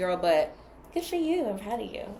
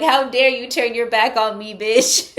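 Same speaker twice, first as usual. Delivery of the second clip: put-on loud, outraged British accent; mock British accent; 6 dB louder than usual. Spurned ex confronting the one who left, British-accented outrage. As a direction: scold indignantly in a put-on British voice. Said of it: "Is somebody from the U K?".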